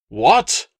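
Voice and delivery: high, loud stunned "What?"; insulted dealer caught off guard; shocked outburst. Acted. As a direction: bark it out, eyes bulging.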